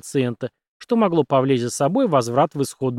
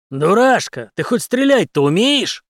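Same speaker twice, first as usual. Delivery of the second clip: louder, higher, slow taunt; mocking grin; 7 semitones higher, 5 dB louder, slower than usual. A narrator's reading. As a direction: taunt him with a smirk. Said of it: "усмехнулся Генри". (Генри насмешливо, медленно дразнит)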